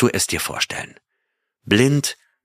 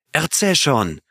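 higher, begging plea; pleading; 7 semitones higher than usual. A narrator's reading. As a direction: urge him on, pleading. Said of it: "flehte Leroy". (flehend, höher)

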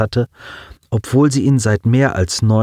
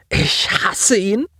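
sobbing; 11 semitones higher, slower than usual. A narrator's reading. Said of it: "schluchzte er".

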